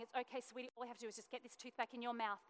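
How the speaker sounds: put-on soft, quick soothing to a frightened child; hushed comfort, keeping it light; reassuring mum. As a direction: mum calming her shocked daughter, soft and reassuring. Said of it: "I'm being the brave mum".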